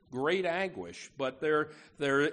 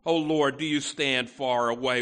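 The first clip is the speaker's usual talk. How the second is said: pained cry; 3 semitones lower, 5 dB louder than usual. Acted. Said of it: "you can hear the pain in the psalmist's voice".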